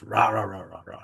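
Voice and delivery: rapid-fire "rah-rah" imitation of ranting; mock ranting noise. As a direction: chant nonsense like someone charging into reaction. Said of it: "just fire into reaction and just charge".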